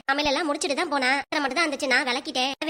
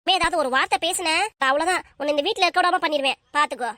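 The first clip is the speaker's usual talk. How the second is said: raised, threatening rebuke; angry scolding. Acted. Mother silencing child who answers back, angry and threatening. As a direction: cut the child off with angry orders.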